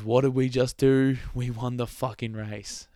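loud, elated radio yell; excited shout. Retold or imitated. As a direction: shout it like you just won. Retold euphoric winning radio shout.

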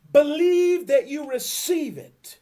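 booming high declaration, slowed; loud proclamation. Real, not acted. Preacher to congregation, booming declaration. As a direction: proclaim it to the whole room.

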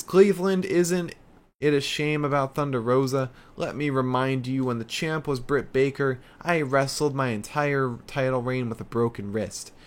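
a lightly hammed-up smug heel; mock heel promo. Reading Britt Baker's promo aloud.

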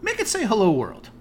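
high, exasperated mock outburst; frustrated. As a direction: imitate a boss at the end of his rope. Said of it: "he just got so frustrated".

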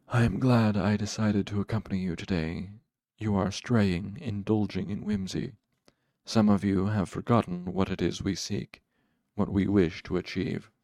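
measured, lordly reprimand; cool dark master. Acted. Haliax reproves his straying followers, coolly stern. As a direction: reprove them with cool authority.

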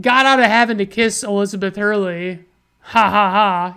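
mock gloating. Husband dodging a kiss, mock gloating. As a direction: crow over a silly trick. Acts out man's gloating trick.

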